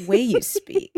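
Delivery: slow, oddly phrased Malkovich cadence; Malkovich-style delivery. Retold or imitated. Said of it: "he always talks like this".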